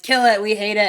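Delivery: loud angry mob shout; angry townsfolk yelling. Retold or imitated. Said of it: "the townspeople are like".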